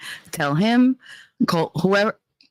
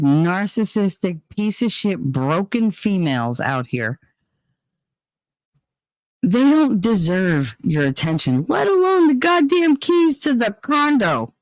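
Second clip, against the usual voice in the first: building rant; 4 semitones higher, slower than usual. Real, not acted. Ranting at son about women.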